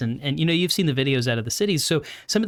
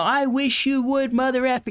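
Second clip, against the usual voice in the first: trash talk; 8 semitones higher than usual. Retold or imitated. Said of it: "He was talking all that smack".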